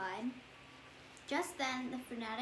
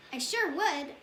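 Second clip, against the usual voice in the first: lightly louder, eager yes; eager exclaim; 3 semitones higher, 6 dB louder than usual. Acted. Fanatic eagerly accepting Phoebe's offer, a mild excited exclaim. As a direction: answer with a happy burst. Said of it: "the Fanatic exclaimed".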